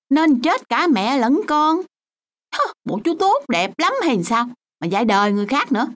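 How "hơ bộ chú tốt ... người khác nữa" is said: scornful jab. Acted. Scornful retort in argument.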